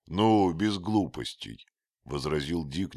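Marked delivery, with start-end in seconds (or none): 0.1-1.7 embarrassed. A narrator's reading. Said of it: "смущённый горячностью своего товарища".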